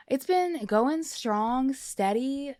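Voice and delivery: slow, high and stretched out; drawn out slowly. Acted. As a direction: savour each word, slowly. Drawn-out list of her week.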